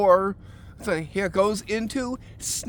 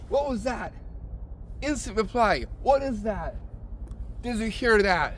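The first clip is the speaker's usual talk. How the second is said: act shocked; 3 semitones higher, 4 dB quieter than usual. Shown as a demonstration. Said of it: "Make sure you act completely shocked".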